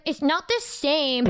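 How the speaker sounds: slow, sulky retold whine; mock pouting. Retelling a tiff at the aquarium, mock pouting. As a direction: act out a small pout, drawing it out. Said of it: "pouting like a little bitch".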